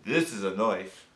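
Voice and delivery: mock Aussie film-hero line, slowing and dropping low; playful Australian movie-quote voice; movie-hero impression. Quoting Crocodile Dundee's famous line.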